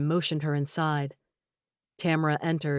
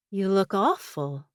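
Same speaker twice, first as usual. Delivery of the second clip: edge of satisfaction; 3 semitones higher, slower than usual. A narrator's reading. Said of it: "an edge of satisfaction in her voice".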